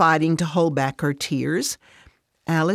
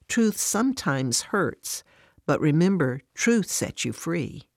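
gentle. Acted. Voice of Jesus, gentle.

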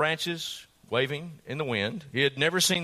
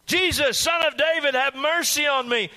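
much higher, louder begging shout; frantic shout; 10 semitones higher, 3 dB louder than usual. Acted. Blind beggar shouts to Jesus over the crowd, frantic shout. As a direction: scream it at the top of your lungs. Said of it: "absolutely beyond their control".

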